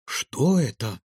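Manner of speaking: a touch of amazement; surprised. Acted. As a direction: ask in mild girlish surprise. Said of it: "удивилась Илона".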